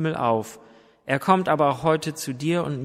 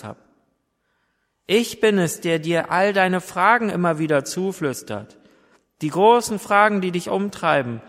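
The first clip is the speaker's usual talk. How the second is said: gently raised, pleading voice of Jesus knocking; voicing Jesus calling; 3 semitones higher than usual. Preacher voicing Jesus at the heart's door, raised and pleading. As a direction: call out like someone knocking at a door, longing to be heard.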